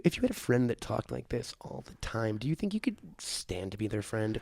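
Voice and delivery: very soft, concerned voice; hushed, caring murmur. Shown as a demonstration. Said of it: "just really soft and concerned".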